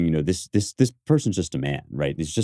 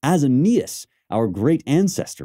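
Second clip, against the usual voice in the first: slow, raised, grand Shakespeare line; slow lofty recital; declaiming Cassius; 7 semitones higher, slower than usual. Shown as a demonstration. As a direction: lift it like a proud boast. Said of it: "He's saying".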